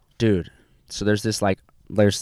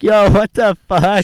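higher, louder, slow disbelief; retold outraged disbelief, higher; mock shocked; 8 semitones higher, 5 dB louder, slower than usual. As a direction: stretch out the shocked outburst. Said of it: "I was like".

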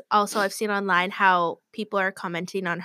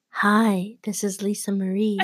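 lightly put-on sweet phone greeting; a hint of a girl putting on a voice for a boyfriend; mock sister phone voice. Little sister mocking big sister's phone voice, lightly put on. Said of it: "my sister would always laugh at her".

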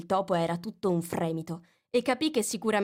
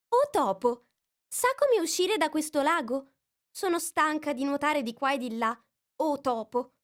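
put-on high, earnest girl calling out; Alice formal plea; 8 semitones higher, 3 dB louder than usual. A narrator's reading. Alice calls out politely to the mouse. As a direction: address the mouse solemnly.

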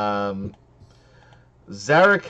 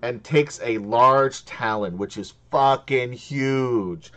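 game master scene setting; 3 semitones higher, 4 dB louder than usual. Acted.

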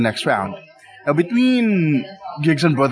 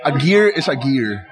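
laughing. Real, not acted. Laughing at his own joke.

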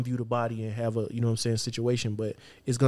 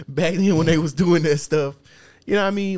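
higher and louder, hammed-up storyteller; mock old-timer voice; 5 semitones higher, 8 dB louder than usual. Laughing at the old days, hammed-up storyteller voice. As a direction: ham up the old days like a preacher.

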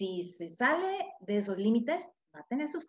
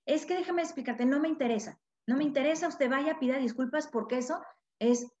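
higher, sharp scolding mom who won't listen; commanding angry mother; 3 semitones higher than usual. Retold or imitated. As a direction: bark orders at the child, cutting him off. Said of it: "tonalidades y palabras de mandato".

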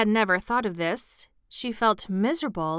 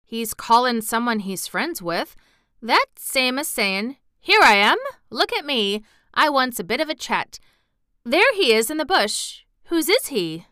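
lightly voiced country lad, lively emphasis; friendly moor boy; 3 semitones higher, 5 dB louder than usual. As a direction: explain like an eager moor boy. Voices Dickon explaining the robin.

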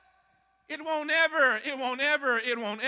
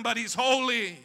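louder, insistent "holy" pressed out; firm declaration; 4 dB louder than usual. Acted. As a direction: declare "holy" over the pain. Hurting but declaring holiness.

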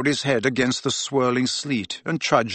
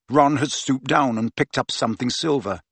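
plain reading voice

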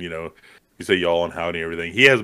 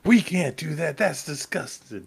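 much higher mock-disgusted mom voice; imitating the mom objecting; 9 semitones higher than usual. Co-host guessing the mom's objection, high mock-disgusted voice. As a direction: play the prim, appalled mother, up high.

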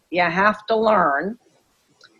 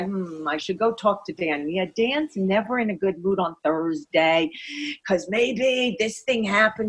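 chicken inner voice; 3 semitones lower than usual. Retold or imitated. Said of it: "your chicken voice might say to you".

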